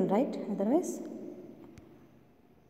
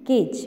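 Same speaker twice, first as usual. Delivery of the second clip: CAGE louder, with a firm falling tone; model for repeating; 5 dB louder than usual. Shown as a demonstration. Teacher asks children to repeat after her, emphatic "Cage". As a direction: say "Cage" loud and clear, then drop the pitch. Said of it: "You also repeat after me".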